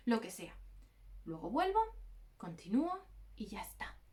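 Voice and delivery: unhurried, settled self-talk; calm planning. Shown as a demonstration. To her viewers, showing the calm way to think, steady and relaxed. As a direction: lay out the plan calmly, easing into a hush at the end. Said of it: "¿Veis la diferencia?".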